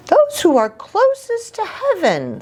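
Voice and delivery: high, airy heron voice. Acted. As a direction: soar up like a heron. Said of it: "said Sonia".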